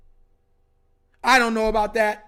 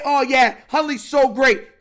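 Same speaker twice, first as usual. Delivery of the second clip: mocking sarcasm; 5 dB louder, slower than usual. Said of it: "they, they".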